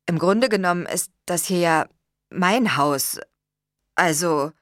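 halting, pausing before the point; tentative, broken-off explanation; awkwardly left hanging. A narrator's reading. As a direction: start to explain, then leave it hanging. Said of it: "ließ den Satz unvollendet".

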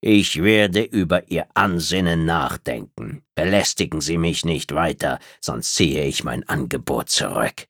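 kühl und von oben herab, langsam; herablassende Reptiloidin. Acted. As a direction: lass sie jede Silbe überlegen auskosten. Tretzab gibt kühl nach. (herablassende Außerirdische, leicht angedeutet)

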